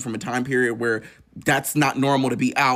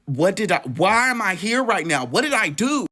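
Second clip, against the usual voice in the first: shocked and crying; 5 semitones higher, 3 dB louder than usual. Retold or imitated. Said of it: "I'm crying and I'm trying to get myself together".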